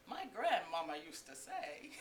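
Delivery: slow lilting highs and lows; drawn-out goofy sing-song; Eugene. Retold or imitated. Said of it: "like, lilting, like, highs and lows".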